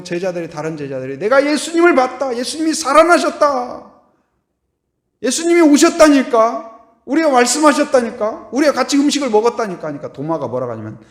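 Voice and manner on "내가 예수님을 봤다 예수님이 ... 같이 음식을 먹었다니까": loud, high, eager telling; excited insistence. Retold or imitated. Disciples excitedly insisting to Thomas that Jesus lives. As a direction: convince a doubting friend.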